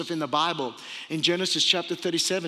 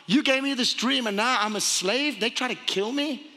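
higher-pitched, disbelieving complaint; mildly indignant plea, raised in pitch; acted protest; 5 semitones higher than usual. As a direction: question God in pained disbelief. Acts out Joseph protesting to God.

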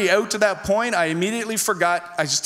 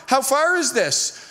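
higher, slow, stretched-out question; uneasy question; 6 semitones higher, slower than usual. Retold or imitated. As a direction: ask it like a worried passenger. Passenger first asks about the distance.

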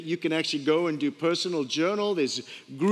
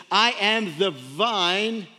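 slow, weighty quoting of Jesus; measured, reverent recitation; slow solemn scripture reading; much slower than usual. Acted. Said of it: "where Jesus said".

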